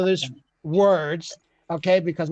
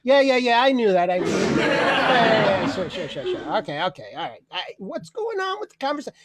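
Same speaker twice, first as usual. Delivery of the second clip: dismissive know-it-all. Retold or imitated. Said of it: "they always answer with".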